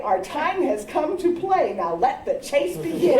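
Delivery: lightly voiced grinning older sister; gleeful big sister. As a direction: announce the game with a grin. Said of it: "Jane would stand before us on her face a spreading grin and say".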